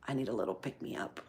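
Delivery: low, very soft, drained voice; acted energy slump. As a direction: murmur it low as if worn out. Acts out her mid-morning energy slump.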